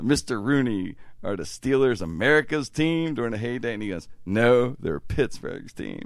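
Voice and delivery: quoting softly, fading to a hush; a hint of an old man's quiet reply; lightly voiced Rooney quote. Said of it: "the Art Rooney thing when he said".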